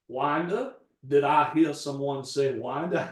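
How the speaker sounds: hint of a Southern Georgia gentleman's accent, booming a touch; Foghorn Leghorn Georgia drawl. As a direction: lightly imitate a grand old Georgia accent. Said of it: "He sounded like Foghorn Leghorn".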